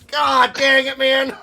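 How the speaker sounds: frustrated. Real, not acted. Frustrated at multi-attack hit.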